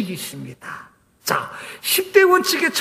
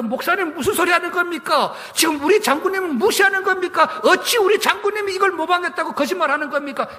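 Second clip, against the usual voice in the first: higher indignant challenge to the pastor; retold angry protest; 6 semitones higher than usual. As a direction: demand it as if the Leader were insulted. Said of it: "그러면서 또 계속 싸웠습니다". (목사님께 대드는 높은 목소리의 분개)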